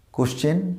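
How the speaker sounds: "কোশ্চেন" as kosh-chen, no w glide; everyday kosh-chen for question; common mispronunciation. Shown as a demonstration. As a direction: say "কোশ্চেন" with a plain ko- opening. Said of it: "আমরা normally কোশ্চেন উচ্চারণ বলি".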